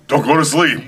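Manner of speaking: high, loud anxious plea; pleading son. Retold or imitated. Son begs dad on plane, high anxious plea. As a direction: beg him to stay awake. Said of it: "he goes".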